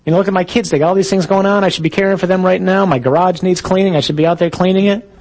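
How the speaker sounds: hurried, run-on list of chores; fretting inner voice. Acted. Restless person listing what they should be doing, mildly harried. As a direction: rattle off nagging worries without a let-up. All the nonsense that says.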